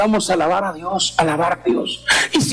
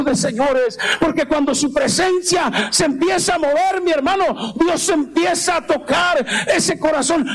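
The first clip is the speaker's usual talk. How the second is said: raised-pitch, driving sermon delivery; fervent preaching; 4 semitones higher than usual. Real, not acted. Preacher exhorting the congregation about God's presence, fervent. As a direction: preach it in long, pressing phrases.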